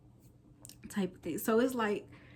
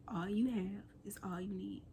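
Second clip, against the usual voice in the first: whispered motto; 9 dB quieter than usual. Real, not acted. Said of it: "I call this series".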